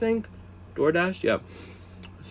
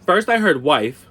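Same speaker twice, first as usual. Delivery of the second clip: slow, louder and higher to six; building disbelief; 7 semitones higher, 5 dB louder, slower than usual. Real, not acted. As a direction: land each count with rising shock. Stunned build to six kids.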